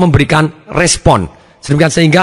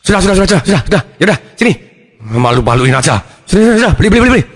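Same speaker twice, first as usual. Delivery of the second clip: embarrassed hurried father; 3 semitones higher, much faster than usual. Acted. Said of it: "Papanya malu".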